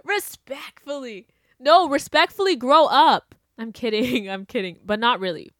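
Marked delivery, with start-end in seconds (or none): 0.0-1.3 softer respectfully. Shown as a demonstration. 1.6-3.4 mock polite put-down. Shown as a demonstration. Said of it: "slow, loud mock politeness".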